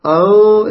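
أن as a held hum shared by nose and mouth; balanced ikhfa. Shown as a demonstration. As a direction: let أن ring evenly, tongue free. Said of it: "لاحظت التوازن بين الخيشوم وبين الفم".

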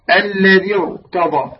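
slow "الذي ارتضى", linked into a thick "rta"; heavy ra. Shown as a demonstration. Teacher gives a Quranic example of incidental kasra, heavy ra. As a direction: slowly join "الذي ارتضى", keeping the ra heavy. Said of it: "هكذا تفخمها".

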